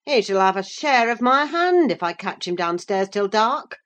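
Hindley threatening Heathcliff, angry; angry threat. Acted. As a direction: threaten the boy harshly. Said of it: "cried Hindley".

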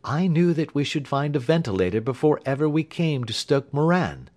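knowing detective, pitched a little up; Holmes voiced. A narrator's reading.

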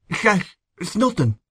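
slow, high, very thick-tongued mumbled words; injured man struggling to get thick words out; thick speech. A narrator's reading. Injured man answering as he tries to stand, speaking thickly. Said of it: "He spoke very thickly".

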